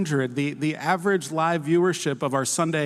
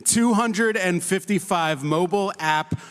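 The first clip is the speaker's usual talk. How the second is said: slow dramatic reveal; slower than usual. Acted. Slow dramatic stat read.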